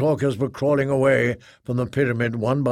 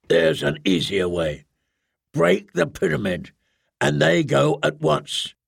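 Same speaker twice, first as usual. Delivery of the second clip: stern commander voice. Acted. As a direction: speak like a ruthless leader. Dahan's voice in story.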